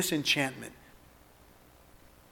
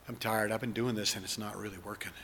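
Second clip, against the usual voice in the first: spoken prayer. Acted. Leads congregation in spoken prayer.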